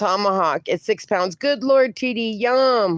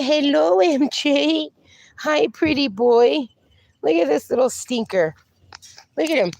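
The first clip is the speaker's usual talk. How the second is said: higher, sing-song voice for the dogs; pet talk; 3 semitones higher than usual. Real, not acted. Owner greeting her pups on stream in pet talk. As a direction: tease the dogs fondly.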